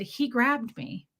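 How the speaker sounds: slow, retold confession on the edge of crying; understated upset, drawn-out words; holding back tears. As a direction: say it trying not to cry. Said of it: "I'm shaking my voice, and I'm trying not to cry".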